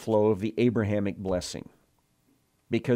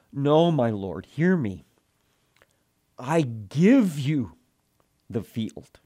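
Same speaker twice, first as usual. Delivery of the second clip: Ephron offering; 3 semitones higher, slower than usual. Retold or imitated. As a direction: voice Ephron pressing the gift.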